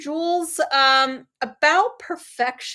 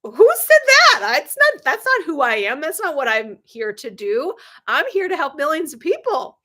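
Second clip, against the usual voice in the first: incredulous retort; 3 semitones higher, 6 dB louder than usual. Retold or imitated. Answering relatives who question her working, with high loud indignation. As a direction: fire it back as if the idea is absurd. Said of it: "And I'm like".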